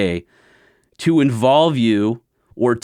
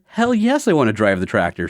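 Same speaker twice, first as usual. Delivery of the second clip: a jump up in pitch on hell yes, then settling; retold eager yes to the uncle. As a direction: blurt it out like a thrilled kid. Eager reply to tractor offer.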